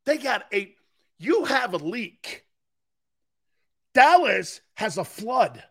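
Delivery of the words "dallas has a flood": "Dallas has a flood" slow, each word hit hard; pounding the point on Dallas; slow emphatic. Real, not acted. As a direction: drive the flood line home slowly. Ranting host hammering point.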